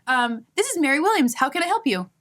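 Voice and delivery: chirpy call-center voice, mocking; mock cheerful agent.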